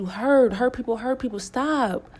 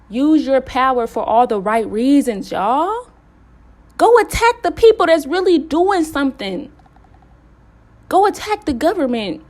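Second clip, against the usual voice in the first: louder and higher, preaching at full force; fired-up rally; 4 semitones higher, 7 dB louder than usual. Real, not acted. Urging witches to fight the real enemies, a loud fired-up call. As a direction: rouse the crowd to fight back.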